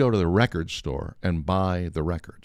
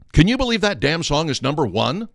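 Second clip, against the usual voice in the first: indignant disbelief; 9 semitones higher, 4 dB louder than usual. Retold or imitated. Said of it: "he comes back in and he goes".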